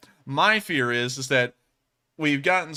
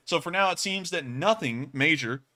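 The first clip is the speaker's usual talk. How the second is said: hiccups; 3 semitones higher than usual. Real, not acted. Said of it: "I'm hiccuping from the coffee".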